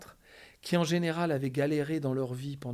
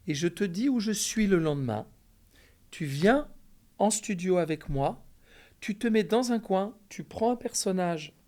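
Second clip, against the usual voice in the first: higher, louder mentor voice; 6 semitones higher, 5 dB louder than usual. Retold or imitated. Francis voiced giving instructions.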